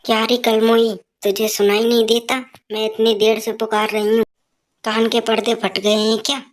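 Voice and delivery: put-on a scolding old woman calling for her tea; mother-in-law shouting for her tea, scolding; nagging mother-in-law. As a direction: bark for the daughter-in-law.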